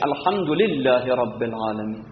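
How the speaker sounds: الحمد said with a brief final u; short vowels passed quickly. Shown as a demonstration. Teacher showing short vowels, الحمد without a stretched ending. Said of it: "از حرکت کوتاه زود رد بشید".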